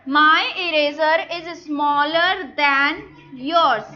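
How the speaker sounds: slow teacher dictation. Shown as a demonstration. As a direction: spell it out for the class, unhurried. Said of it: "teacher models sentence very slowly".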